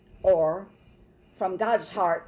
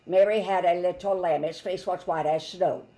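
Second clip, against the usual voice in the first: monotone. Shown as a demonstration. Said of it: "He would not say it in a monotone way".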